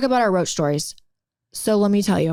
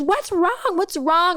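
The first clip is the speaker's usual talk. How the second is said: high-pitched imitation of worried questions; retold freaking out; 7 semitones higher, slower than usual. Mom on phone hears daughter scream, mock freak-out. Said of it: "She's, like, freaking out".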